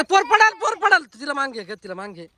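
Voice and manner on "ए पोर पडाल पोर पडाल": warning shout. Real, not acted. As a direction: call out sharply so they don't fall. Warning children they'll fall.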